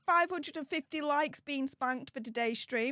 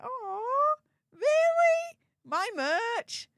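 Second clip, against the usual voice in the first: much higher, squealing disbelief; mock emotional gush; 8 semitones higher, much slower than usual. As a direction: play a fan overwhelmed at own merch, hammed-up. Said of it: "make me all emotional again and be like".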